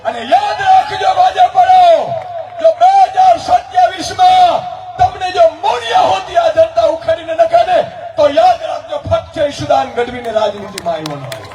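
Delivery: rally speech. Acted. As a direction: rouse the crowd like a campaign orator.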